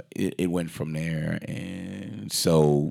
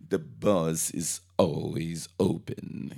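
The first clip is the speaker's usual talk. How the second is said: slow mock quote; slower than usual. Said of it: "So he was like".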